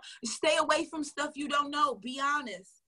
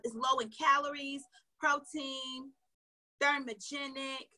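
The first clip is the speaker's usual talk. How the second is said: salesy listing; slower than usual. Shown as a demonstration. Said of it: "Here's what you don't do to be salesy".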